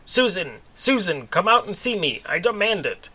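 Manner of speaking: mock shout across a town square. Kevin calls Susan out of the store, shouting. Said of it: "began to shout in the town square".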